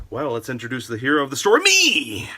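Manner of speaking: fast build to a high, loud "me"; a hammed-up triumphant reveal; grand announcement. Real, not acted. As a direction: announce yourself as the hero. Comic self-introduction as hero.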